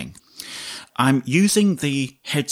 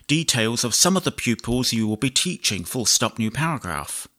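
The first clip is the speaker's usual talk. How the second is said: measured dictation, punctuation spoken aloud; slow dictation with punctuation. Shown as a demonstration. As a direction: dictate to the computer, clear and even. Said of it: "demonstrate how you can dictate much longer chunks".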